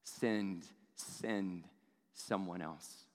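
soft, low fading plea; a desperate man begging to be let off. Retold or imitated. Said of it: "He's desperate. He's begging".

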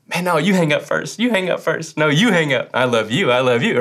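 lightly mimicked lovey-dovey phone goodbye; a hint of cutesy couple talk; mock lovesick sweetheart. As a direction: playfully imitate a smitten caller, pitch bobbing up.

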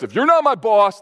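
half-playful imitation of a kid shouting back; mock childish protest. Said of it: "cries of protest".

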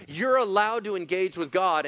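loud, high, pleading preacher cry; fervent pleading sermon voice; impassioned preaching. Real, not acted. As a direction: cry it out to God with the congregation.

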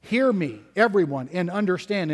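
firm stress on HEAR and EVERYONE; weight on "Hear me", then on "everyone"; emphatic. Retold or imitated. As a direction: quote it as an emphatic summons. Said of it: "it is emphatic here".

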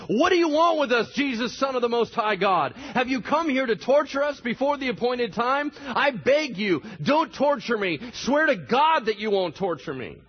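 high, loud desperate pleading; demon shouting. A narrator's reading. The possessed man screaming at Jesus, loud desperate plea. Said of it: "shouting at the top of his voice".

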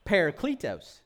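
Parakletos as PAIR-uh-klee-toes, Midwestern; mock Midwestern Parakletos; Midwestern accent. Shown as a demonstration. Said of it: "in the Midwestern dialect".

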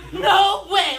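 high, loud, laughing no way; amazed no way. Retold or imitated. Leader hearing her own prayer answered, laughing disbelief. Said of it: "like that".

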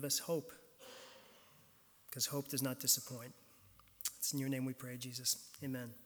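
hushed, measured congregational prayer. Real, not acted.

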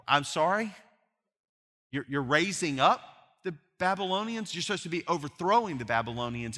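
incredulous. Retold or imitated. Incredulous retold Habakkuk.

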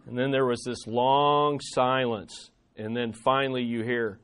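low, soft narration; suspenseful, softened lead-in; hushed storytelling. A narrator's reading. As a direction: drop low and quiet before the punchline.

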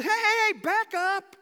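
cutting rebuke to a mocker; rebuking shout. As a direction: shout the other thief down.

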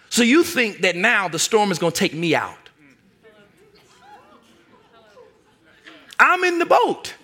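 a teacher amazed at his students' doubt; rebuking Jesus. Acted.

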